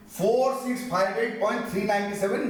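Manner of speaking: "नाइंटी सेवन" read as one two-digit number after point; wrong decimal reading. Shown as a demonstration. Teacher shows students how not to read decimals, "नाइंटी सेवन" grouped as one number. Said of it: "pronounce करना चाहिए".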